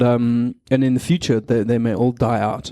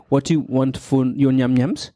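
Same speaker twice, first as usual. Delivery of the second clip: put-on baby talk. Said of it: "you say things to your kids like".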